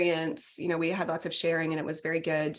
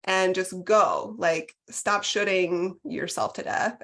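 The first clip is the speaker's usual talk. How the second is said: mock scolding self. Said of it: "And finally I said".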